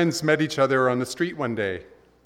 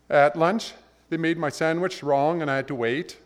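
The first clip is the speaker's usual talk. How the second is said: high aggrieved voice, words tumbling; complaining man; 4 semitones higher than usual. Retold or imitated. Man whining to God about his bad day. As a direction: pour out the grievance.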